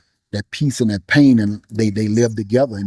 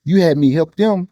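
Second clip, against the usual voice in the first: pitched high, pleading; anguished plea to God; 6 semitones higher than usual. Retold or imitated. Grieving father confronts God over his son, high and anguished. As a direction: throw the grief up at God, voice straining high.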